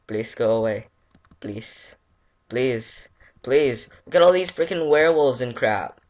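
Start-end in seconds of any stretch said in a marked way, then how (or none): 1.4-3.9 pleading building to panic. Real, not acted. Begging rising to panic. 4.1-6.0 higher, louder, fast panic; panicked yelling. Real, not acted. Panicked outburst at werewolves.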